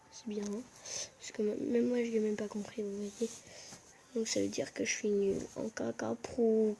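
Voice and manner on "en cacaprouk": put-on slow babyish cooing; cutesy baby talk. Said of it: "parler comme un bébé".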